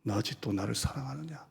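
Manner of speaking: quiet tender pleading; tender question. Acted. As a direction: ask it softly with sorrow. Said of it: "나는 항상 아직도를 넣어요".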